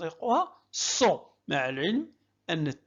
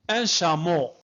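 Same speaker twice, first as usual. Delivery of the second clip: plain; 5 dB louder than usual. Shown as a demonstration. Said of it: "ممتاز".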